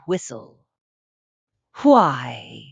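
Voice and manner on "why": sudden low loud cry. A narrator's reading. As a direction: cry it out in surprise. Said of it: "he cried out".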